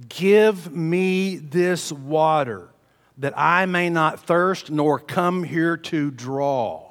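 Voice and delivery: slow, high, drawn-out plea; slow pleading woman asking Jesus. Acted. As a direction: beg for it slowly, voice lifted.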